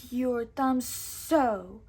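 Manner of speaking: slow odd puppet voice; merry men's skit, slow puppet snake voice. Pretend. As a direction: play the glove puppet snake slowly. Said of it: "asked the fake Hiss".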